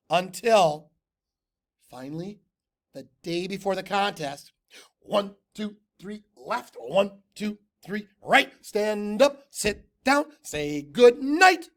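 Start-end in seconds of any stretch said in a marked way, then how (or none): 5.0-11.7 high cheer building louder; proud cheer. A narrator's reading. Tacky nailing the cheer, high and building louder. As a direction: chant it proudly.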